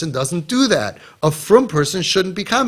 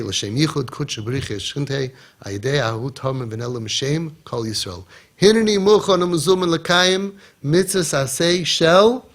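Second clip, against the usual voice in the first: prayer recitation. Acted. Teaching parents the words of the Yiratzin, measured prayer recitation. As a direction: chant the formula, slowing at the end.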